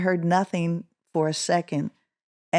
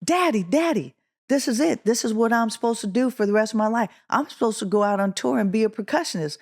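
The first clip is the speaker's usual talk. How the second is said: higher-pitched, rushing retold outburst; eager mock yell, gathering speed; excited yelling, retold; 4 semitones higher, faster than usual. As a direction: act out a thrilled kid calling to Daddy, without real shouting. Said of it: "I'm just yelling and jumping up".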